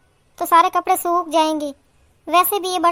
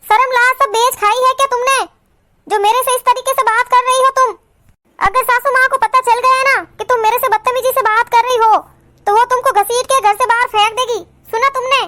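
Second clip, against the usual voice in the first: mildly raised, acted outrage; angry scolding; 3 semitones higher than usual. Elder sister-in-law threatening rude Kajal, angry scolding. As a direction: scold her and warn her off.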